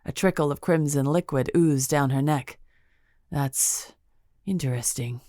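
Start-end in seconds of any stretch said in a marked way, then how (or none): 3.3-5.2 whispered. A narrator's reading. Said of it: "I whispered".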